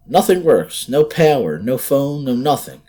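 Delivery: high loud tense answer; frightened reply. Acted. Sandra answering the boy through the door, scared.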